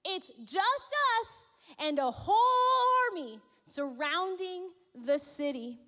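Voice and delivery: mild fearful cry; frightened cry. Acted. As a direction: voice the panicked young servant. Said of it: "the young man cried to Elisha".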